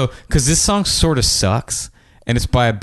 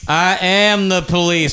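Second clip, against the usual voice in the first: slow, slightly raised delivery; lightly voiced menacing cop; 4 semitones higher, slower than usual. A guy answering the people who yelled, slow mock menace. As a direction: draw it out like a threat. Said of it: "And a guy goes".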